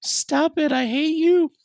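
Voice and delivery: high squeaky mock whine from the pet; voicing the dog. Owner voices his dog whining at him, high mock protest. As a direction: pipe it up high as the dog complaining. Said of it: "she's like".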